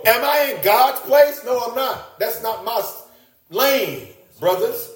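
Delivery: high, gentle reassurance to brothers; calm the brothers' fear; reassuring Joseph. Acted. Preacher voices Joseph reassuring his brothers, high and gentle.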